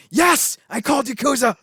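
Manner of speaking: loud, high mock victory shout; triumphant acted yell. Random prisoner claims his bet on the fight, triumphant yell. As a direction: crow it as a cartoonish boast. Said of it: "there's a random Japanese dude in there".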